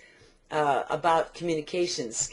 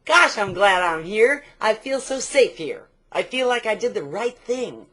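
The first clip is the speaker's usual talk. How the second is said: relieved customer; 2 semitones higher, 4 dB louder than usual. Acted. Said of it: "they can go".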